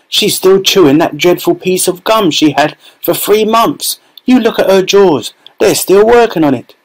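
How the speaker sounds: a hint of a scornful bystander; lightly voiced gossiping onlooker. A narrator's reading. Onlooker mocking Violet's gum, gossipy. Crowd voice in story.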